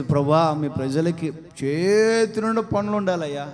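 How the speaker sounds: a lightly voiced pleading prayer; imitated prayer. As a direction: mimic the believers' earnest plea to God. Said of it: "అని ప్రార్థన చేస్తే".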